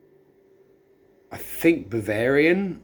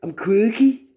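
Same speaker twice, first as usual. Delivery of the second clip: high, loud mock-indignant echo of quirky; mock offended; 11 semitones higher, 7 dB louder than usual. Tasting a drink, she echoes its quirky label with mock indignation. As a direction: feign outrage at being called quirky.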